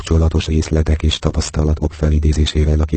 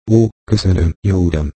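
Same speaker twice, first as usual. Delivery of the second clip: grateful cry; 2 semitones higher than usual. A narrator's reading. The whipping boy thanks the king, crying out gladly. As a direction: cry out your thanks, overjoyed. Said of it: "kiáltotta a fiú".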